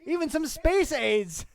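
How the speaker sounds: high, loud hammy squawk; loud cartoon voice. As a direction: brag in a squawky voice. Cartoon voice bragging.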